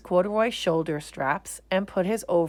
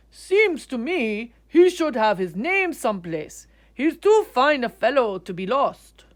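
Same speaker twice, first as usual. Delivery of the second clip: higher, louder kindly man; musing artist; 5 semitones higher, 6 dB louder than usual. Acted. Artist wondering who owns the bear. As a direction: wonder aloud fondly.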